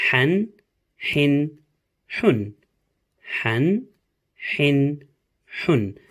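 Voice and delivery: Han with a sharp throaty H; teacher demonstrating the sharp Ha sound; Arabic letter Ha drill. Shown as a demonstration. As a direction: push the H from the throat in Han, Hin, Hun. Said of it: "after me again".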